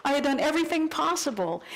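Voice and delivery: hammed-up huffy inner voice; indignant inner rant. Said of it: "I have all these angry thoughts".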